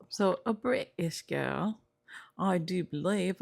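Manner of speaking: put-on amateur British accent, drawn out at first; attempted British accent. Vlogger guessing at a woman's nationality, in an unpractised British accent. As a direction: try on a rough British accent. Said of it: "maybe she got a British accent".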